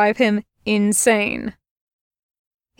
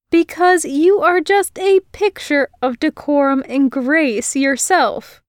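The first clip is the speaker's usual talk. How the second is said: girl mocking his manners; sarcastic retort; 5 semitones higher than usual. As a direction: throw it back at him.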